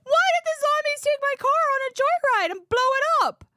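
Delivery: high, loud, exasperated; loud comic outrage; incredulous rant. Real, not acted. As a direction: rant in disbelief at the joyride. Ranting about zombies and car.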